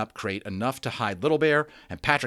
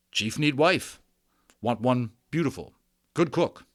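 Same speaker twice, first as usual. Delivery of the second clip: higher, louder chief demanding a wife; boastful Little Bear; 4 semitones higher, 5 dB louder than usual. A narrator's reading. Little Bear tells Omri what wife he wants, boastful. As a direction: puff up like a proud little chief.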